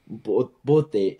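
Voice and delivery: imitating a white foreigner's accent in Tagalog; mock American accent on "puti". Shown as a demonstration. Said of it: "you don't wanna sound".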